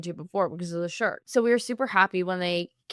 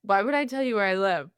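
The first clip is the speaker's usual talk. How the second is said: lightly imitated sassy comeback. Friend imitating her reply to the drunk guy, sassy. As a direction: retell it with a teasing touch of sass. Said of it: "being sassy".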